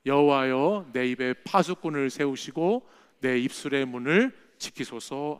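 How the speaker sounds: slow, measured reading of the psalm; solemn congregational reading; scripture recitation. Acted. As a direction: recite the verse together with the congregation, slowly.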